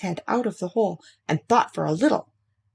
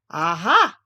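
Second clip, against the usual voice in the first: aha; 3 dB louder than usual. Acted. Pooh finds a hole.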